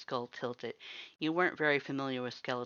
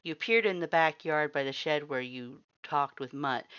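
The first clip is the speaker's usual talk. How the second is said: ordinary delivery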